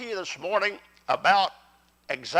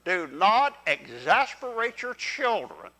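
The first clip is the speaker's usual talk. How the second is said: slow, deliberate group reading of a verse; leading scripture read-along; slower than usual. Real, not acted. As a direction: lead the congregation through it word by word. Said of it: "read along with me".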